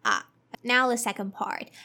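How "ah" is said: Ah with the mouth wide open. Shown as a demonstration. Teacher showing the open ah vowel. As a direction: say Ah, jaw dropped. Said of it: "open your mouth".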